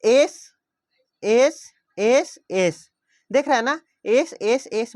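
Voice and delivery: एस called out loud and drawn out; teacher calling out the repeated एस; stressing the S sound. Shown as a demonstration. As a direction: hit every एस hard. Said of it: "एस का जो sound है more than two time repeat".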